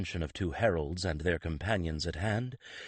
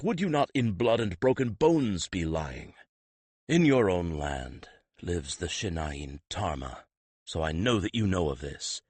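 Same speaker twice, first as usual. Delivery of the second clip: stern Alberich. Acted. Alberich berates the prince.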